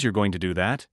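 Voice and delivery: questioning lift on "that"; rise on THAT. Shown as a demonstration. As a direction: let the pitch climb on "that" at the end. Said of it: "pitch rises or falls".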